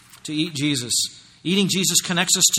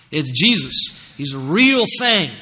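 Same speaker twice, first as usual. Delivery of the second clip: fervent exhortation; 3 semitones higher, 4 dB louder than usual. Real, not acted. Preacher exhorts congregation.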